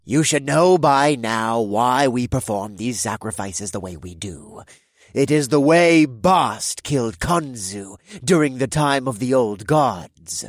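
grave leader. Acted. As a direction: weigh each word. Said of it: "one with much more gravitas".

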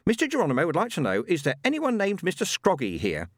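medium's voice. Acted. Madame Tracy relays message.

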